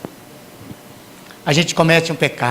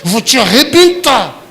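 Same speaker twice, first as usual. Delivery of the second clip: threat in public; 2 semitones higher than usual. Retold or imitated. Parent in the street threatening the child, building threat. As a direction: hiss it then burst at the end. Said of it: "você faz isso e fala".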